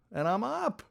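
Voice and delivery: high-pitched, amazed little cheer; elated realization. Retold or imitated. Skier finally standing on the water, elated. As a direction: repeat it an octave up in delight.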